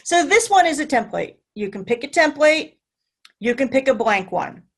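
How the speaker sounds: a light puppet monster voice; Cookie Monster voice. Pretend. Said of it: "in my Cookie Monster voice".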